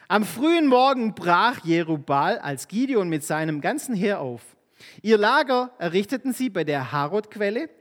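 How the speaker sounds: lightly acted Bible reading; scripture reading. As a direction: read the Bible story to the congregation. Reads Bible passage aloud.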